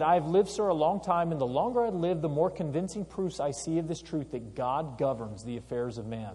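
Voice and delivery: put-on lightly formal reading of an old speech. Teacher reading Franklin's convention speech, lightly formal. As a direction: read it as the elder statesman.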